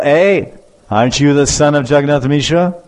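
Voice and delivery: mock telling-off; indignant challenge. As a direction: call out the boy like an offended teacher. Offended teacher challenges mischievous boy.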